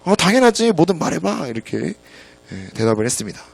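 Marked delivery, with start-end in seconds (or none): 0.0-1.5 lightly voiced eager little daughter, higher pitch; excited daughter. Daughter eagerly answers dad's request for help, excited. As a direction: play a child happily agreeing. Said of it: "딸은 이제 신나서 반응을 했죠".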